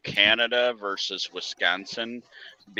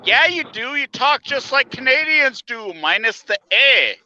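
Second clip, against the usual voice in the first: mock retort; 10 semitones higher, 5 dB louder than usual. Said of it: "I'm like".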